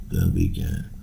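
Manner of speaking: a breathy whispered repeat under the breath; whispered echo. Real, not acted. Podcaster echoing his own words, in a whisper. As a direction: whisper it back to yourself, like a private aside.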